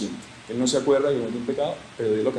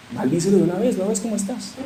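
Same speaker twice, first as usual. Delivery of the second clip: lightly voiced nagging wife; 6 semitones higher than usual. Voicing Job's wife urging him.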